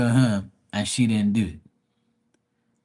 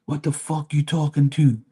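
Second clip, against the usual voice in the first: angry customer; 4 semitones higher than usual. Retold or imitated. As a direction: act out the pushy customer demanding service. Customer snapping at speaker.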